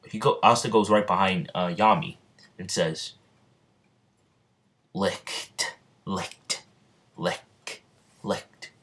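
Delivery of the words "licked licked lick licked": hushed, voiceless whisper; sneaky whisper. Acted. Asta sneaks right behind Yami, whispering. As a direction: whisper each word separately, very softly.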